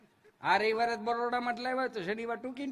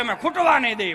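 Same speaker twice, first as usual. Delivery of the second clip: proud shout; 2 semitones higher, 7 dB louder than usual. Retold or imitated. Buttermilk's promise voiced loudly.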